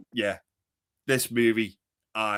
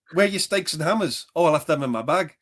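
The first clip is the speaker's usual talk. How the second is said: higher, hammed-up film voices; movie impersonation; 7 semitones higher, 5 dB louder than usual. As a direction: act out the movie scene. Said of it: "doing impersonations".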